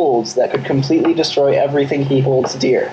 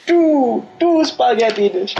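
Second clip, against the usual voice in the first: much higher, hammy counting voice joining the bit; 9 semitones higher, slower than usual. Pretend. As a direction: pick up the Count impression, up high. Joins the Count impression.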